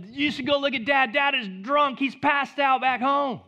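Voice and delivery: high, excited tattletale voice; tattling son. Retold or imitated. Son tattling on drunk father.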